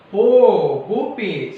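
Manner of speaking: grating voice. A narrator's reading. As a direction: call out Gopi harshly. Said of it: "she said in her grating voice".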